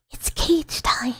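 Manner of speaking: slow, breathy, menacing glee; sinister whisper. Acted. Streamer springs the trap, slow sinister whisper. Acted capture bit.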